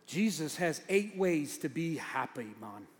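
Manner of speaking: put-on slow, playful Jamaican accent. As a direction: lightly put on a laid-back Jamaican accent. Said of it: "That was my Jamaican accent".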